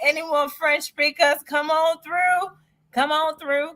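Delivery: high, drawn-out call to come in; excited, lilting call-out; excited invitation. Real, not acted. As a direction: beckon listeners eagerly, stretching the words. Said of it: "I just got so excited".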